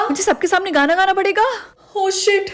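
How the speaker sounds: dismayed surprise. Acted. Learns she must sing before everyone. (घबराई हुई हैरानी से)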